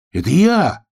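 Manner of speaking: a hare shouting to be heard. A narrator's reading. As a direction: keep yelling the welcome. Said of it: "— закричал заяц".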